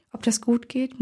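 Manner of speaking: soft worried murmur, half to herself. A narrator's reading. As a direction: mutter the doubt under your breath. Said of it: "murmelte ich".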